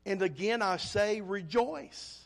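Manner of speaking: rejoice given renewed emphasis; stress on rejoice. Retold or imitated. Preacher repeating Paul's call to the congregation, emphatic on rejoice. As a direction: land firmly on the closing rejoice. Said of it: "double emphasis on the word".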